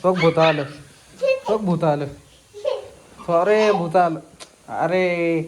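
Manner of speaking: low pretend warning of a ghost; mock ghost alarm. Parent warns Bobby in play that the ghost came, mock alarm.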